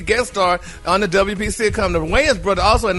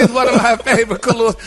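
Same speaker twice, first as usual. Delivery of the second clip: laughing; 3 semitones higher, 3 dB louder than usual. Real, not acted. Laughs while announcing color.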